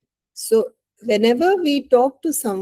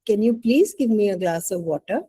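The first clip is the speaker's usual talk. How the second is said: gentle ask, rising on please; polite request. Shown as a demonstration. Teacher demos the polite request to the class, gently. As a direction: ask nicely, leaning on please. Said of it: "Which one is polite".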